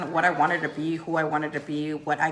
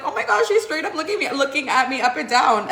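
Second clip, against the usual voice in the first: higher mock shocked friend; imitating friend; 7 semitones higher, 4 dB louder than usual. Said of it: "Anna would be like".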